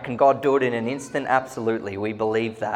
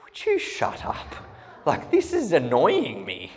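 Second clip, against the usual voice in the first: mock irritated snap; 3 semitones higher, 5 dB louder than usual. Retold annoyed complaint during worship.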